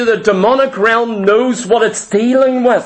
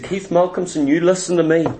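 stern self-talk; 5 semitones lower than usual. Retold or imitated. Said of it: "And I said".

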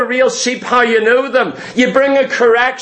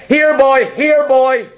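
light coaxing call; calling a dog; 2 semitones higher, slower than usual. Retold or imitated. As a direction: coax the dog over, friendly. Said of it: "I brought holy things that said".

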